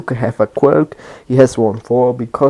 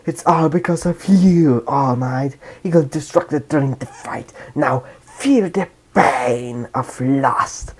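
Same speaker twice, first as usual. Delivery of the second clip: slow, gloating villain taunt; lightly voiced sneer at the hero. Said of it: "And Shigaraki is like".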